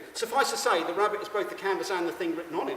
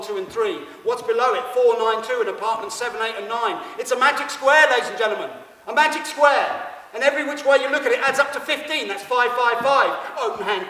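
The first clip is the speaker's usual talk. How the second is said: high, loud, racing showman's discovery; frantic revelation; 5 semitones higher, 8 dB louder than usual. Pretend. Showman reveals the magic square to the audience, loud and elated. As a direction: shout the discovery to the crowd.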